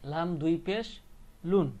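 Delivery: rising "পেশ", pause, then "লুন"; spelled-out tanween. Shown as a demonstration. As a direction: land on "লুন" with a final n. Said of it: "same এখানেও কি".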